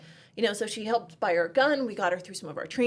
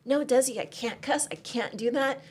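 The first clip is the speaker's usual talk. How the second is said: innocent shy refusal; 4 semitones higher than usual. Retold or imitated. A hint of a timid student refusing to cuss at the range. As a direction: play a shy sweet woman who won't swear. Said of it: "she was just so innocent".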